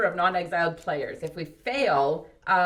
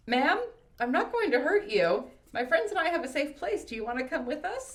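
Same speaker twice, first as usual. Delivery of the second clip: higher-pitched, gentle coaxing; careful reassurance; 8 semitones higher than usual. A narrator's reading. Survivor offering stranger a safe place, careful reassurance. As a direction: talk down someone holding a knife. Card's dialogue to woman with knife.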